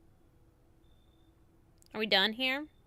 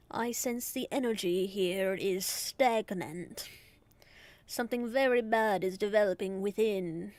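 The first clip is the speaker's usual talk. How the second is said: mystic fortune teller; 2 semitones lower than usual. Acted. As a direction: intone like a tarot reader. Voices a psychic character.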